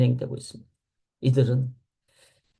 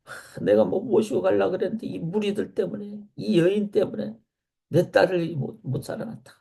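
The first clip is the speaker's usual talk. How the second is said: higher-pitched, exasperated complaint; acted frustration; 6 semitones higher than usual. Preacher voices Jairus blaming the crowd, acted frustration. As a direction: voice an upset father's grievance, mildly acted. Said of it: "화가 나지 않겠어요".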